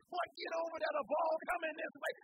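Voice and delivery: high, loud yell; screaming from the stands. Retold or imitated. Fans screaming at a boy out of position, loud. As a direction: shout a warning down from the top. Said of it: "They screaming from up top".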